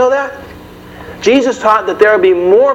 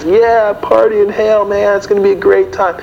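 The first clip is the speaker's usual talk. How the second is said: mocking kids; 4 semitones higher than usual. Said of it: "the kids".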